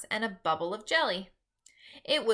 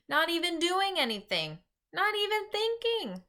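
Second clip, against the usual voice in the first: rising emphasis; 10 semitones higher than usual. A narrator's reading.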